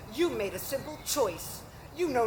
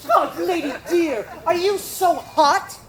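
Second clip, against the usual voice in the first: laughing; 4 semitones higher, 4 dB louder than usual. Acted. Nurse teasing Juliet.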